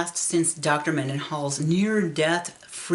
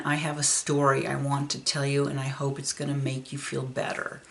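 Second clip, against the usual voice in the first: gentle comfort; 2 semitones lower, 4 dB quieter than usual. Retold or imitated. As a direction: ease a grieving man's pain. Doctor comforts grieving father gently.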